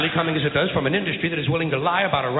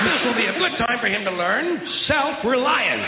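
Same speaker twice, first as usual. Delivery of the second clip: comic rant; 5 semitones higher than usual. Acted. Ranting about the child.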